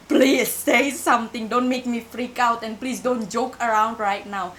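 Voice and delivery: slow, pleading, a touch of fear; tearful pleading. Retold or imitated. Scared girl begging the silent woman to speak, slow plea. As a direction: beg her slowly to answer. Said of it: "aku akhirnya nangis lagi".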